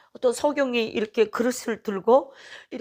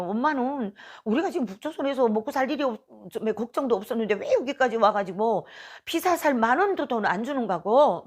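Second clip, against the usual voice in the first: higher-pitched, mildly indignant complaint; retold angry son; 3 semitones higher than usual. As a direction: protest like a son upset with his mother. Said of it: "이러면서 막 화를 내는 거예요". (아들이 화내며 따지는 말투 흉내)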